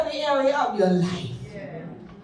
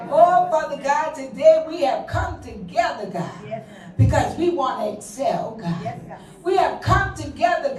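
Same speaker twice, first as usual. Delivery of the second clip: fervent, rhythmic prayer with rising cries of God; praying aloud for the women, then intense prayer; public prayer. Acted. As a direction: lead the congregation in earnest prayer. Leads a long public prayer.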